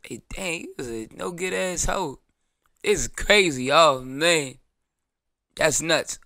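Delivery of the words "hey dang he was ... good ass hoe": mock heartbroken. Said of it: "I'm gonna act like I'm there".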